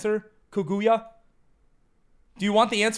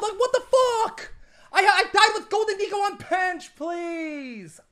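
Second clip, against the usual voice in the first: laughing outrage; 12 semitones higher, slower than usual. Real, not acted. Outraged at death.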